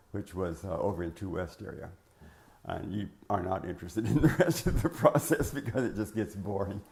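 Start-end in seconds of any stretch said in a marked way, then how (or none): 2.7-6.8 laughing through the words; amused aside. Real, not acted. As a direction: break into a louder chuckle midway. Joking aside about his own detail.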